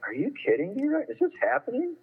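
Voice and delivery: retold disbelief. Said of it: "I'm like".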